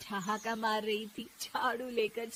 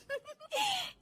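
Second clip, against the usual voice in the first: soft, high titter; gloating giggle; 5 dB quieter than usual. Acted. Daughter-in-law pleased with her scheme, soft high giggle. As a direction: giggle at your own scheme.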